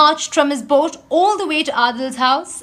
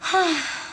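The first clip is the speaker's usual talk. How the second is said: sigh; 5 semitones higher, 3 dB quieter than usual. A narrator's reading. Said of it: "Adil sighed".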